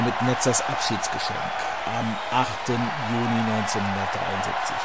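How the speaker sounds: big booming ring introduction; boxing ring announcer. Acted. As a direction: announce each fighter like a title bout. Boxing ring introduction over music.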